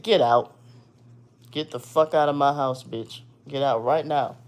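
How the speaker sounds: angry shout of get out; retold yell. Scene: throwing the girlfriend out of the house, angry yelling.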